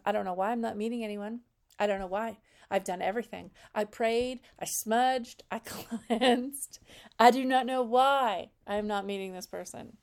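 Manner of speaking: mock Southern accent. Vlogger mocking a Southern client who can't find love, in a Southern accent. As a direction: imitate a Southern client complaining in a put-on Southern accent. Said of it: "If you're from the South, I'm sorry for my cheesy accent".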